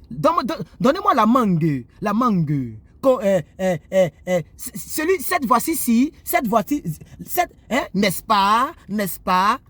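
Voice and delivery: lightly imitated Cameroonian accent; accent camerounais. Shown as a demonstration. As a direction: playfully demonstrate a Cameroonian accent, with drawn-out hesitations. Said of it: "Surtout l'accent camerounais". (accent camerounais légèrement imité)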